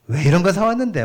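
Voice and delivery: Gyeongsang dialect. Retold or imitated. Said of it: "경상도 사투리가 나오는 겁니다".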